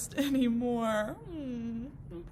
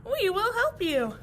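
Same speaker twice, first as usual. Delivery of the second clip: reassuring; 6 semitones higher, 6 dB louder than usual. Acted. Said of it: "says the grass".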